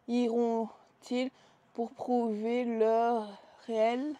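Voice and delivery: slow, deliberate blurb reading; slow dramatic reading. Shown as a demonstration. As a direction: read it out slowly, dramatically. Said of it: "je lis la petite phrase".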